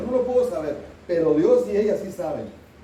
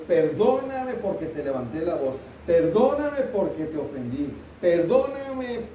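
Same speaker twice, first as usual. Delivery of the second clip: sincere apology; slower than usual. Shown as a demonstration. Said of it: "Es perdón y específico".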